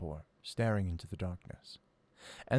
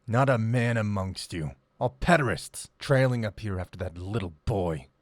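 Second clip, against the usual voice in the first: loud jeer; 7 dB louder than usual. Acted. Caged wriggler taunting the lads.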